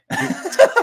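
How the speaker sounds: high, loud unvoiced laugh; burst of laughter. Real, not acted. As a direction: crack up at the joke. Laughs at joke about dying.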